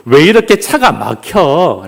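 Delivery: slow, mildly exasperated grumble; mock complaint. Driver stuck in traffic, lightly complaining. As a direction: draw out the mock grievance. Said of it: "라고 불평합니다".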